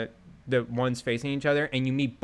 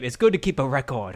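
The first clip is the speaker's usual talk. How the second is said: mock British quote; 4 dB louder than usual. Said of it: "every time you save, the main character says this line".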